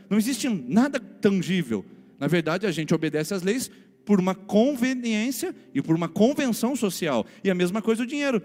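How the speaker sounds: loud, high preaching with great intensity; full-force preaching. Acted. Pastor preaching hard to the congregation about greed. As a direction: drive the point home to the church.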